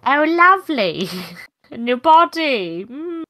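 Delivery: high, giggly little voice in the ear; a tiny sprite purring in your ear; twinkling breathy fairy whisper. Acted. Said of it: "you hear a little voice in your ear go".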